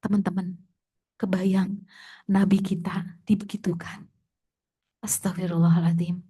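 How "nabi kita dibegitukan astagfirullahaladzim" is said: whispered in dismay; a pained whisper; hushed whisper. Real, not acted. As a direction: breathe it out, shaken. Grieving over the Prophet's humiliation.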